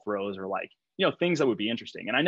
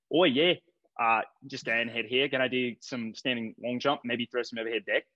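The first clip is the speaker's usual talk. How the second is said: Fab. Retold or imitated. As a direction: imitate an easygoing athlete's accent. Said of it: "Maybe I should do Fab".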